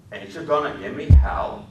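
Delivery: put-on high, loud childlike question; a child asking for his scolding; Lenny asking eagerly. A narrator's reading. Lenny eagerly begging George to scold him, high and loud.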